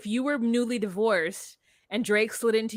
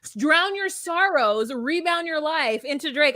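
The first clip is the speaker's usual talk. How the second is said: louder, exasperated insistence; worked-up insistence; 4 semitones higher, 4 dB louder than usual. Real, not acted. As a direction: argue it hard, pitch pushed up. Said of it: "I'm so mad you told me that".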